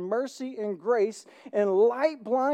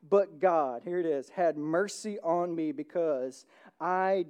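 scripture reading; 2 semitones lower than usual. Acted. Pastor reading First Timothy to the congregation, measured. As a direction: read the passage with steady weight. Reads scripture aloud in a sermon.

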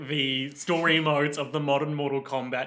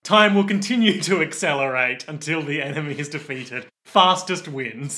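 lightly hammed-up task reader, punching the final words; mock game announcer; 4 dB louder than usual. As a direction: announce the rules with mock gravity. Mock contest announcer reading rules.

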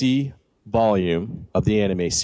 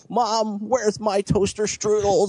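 yelling across the room; 10 semitones higher, slower than usual. Pretend. Calling to mom across house.

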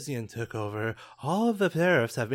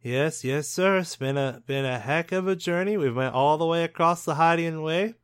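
band member voice; 4 semitones higher, 4 dB louder than usual. Acted.

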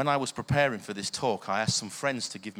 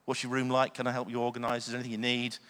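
reassuring; faster than usual. Retold or imitated. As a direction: gently coax a tired student. Kind words to a student.

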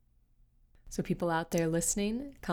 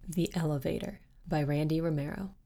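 plain reading voice

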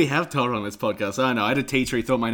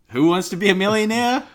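game show host; 9 semitones higher, 6 dB louder than usual. Acted. Game show catchphrase quote.

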